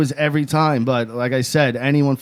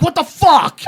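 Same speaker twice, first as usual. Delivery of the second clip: high, louder disbelief breaking into a laugh; laughing mock outrage; 5 dB louder, slower than usual. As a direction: play it as a laughing mock shock. Imitating himself, laughing.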